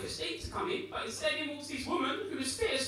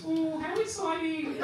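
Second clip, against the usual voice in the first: slow, drawn-out mock delight; faked excitement; 6 semitones higher, slower than usual. Receptionist calling from afar, drawn-out mock delight. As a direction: savour the fake enthusiasm. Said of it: "just the words".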